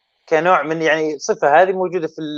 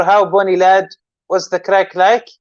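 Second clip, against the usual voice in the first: slow and careful; 2 semitones higher, slower than usual. Shown as a demonstration. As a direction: spell out "how bonny lad, what's the crack like" slowly. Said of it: "if I want to teach you".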